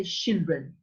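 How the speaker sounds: put-on CHILDREN with "sh" for the "ch"; mispronounced children. Shown as a demonstration. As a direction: imitate the error "shildren". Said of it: "when people say".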